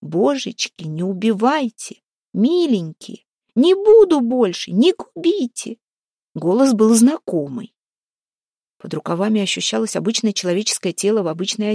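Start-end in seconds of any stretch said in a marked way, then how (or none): 0.0-5.8 high, drawn-out wail rising to a loud cry; pleading wail. A narrator's reading. Captured woman begs her attackers for mercy, pleading wail. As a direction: beg for your life, wailing higher and higher. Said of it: "что такое она кричит".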